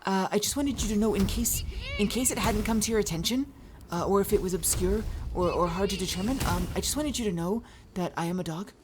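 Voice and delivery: a shy puppy explaining it is a dog. Retold or imitated. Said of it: "I'd be like".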